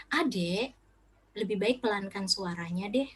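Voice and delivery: softened, coaxing request; gentle parent. Shown as a demonstration. Parent asking a child to quiet down, gently. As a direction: model a calm word to a little one.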